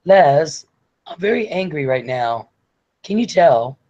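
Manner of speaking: hint of a polite woman's anger; Sarah very angry. Sarah telling Les she is angry, mildly mock-cross. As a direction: imitate someone politely cross. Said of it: "Sarah can't cuss somebody out".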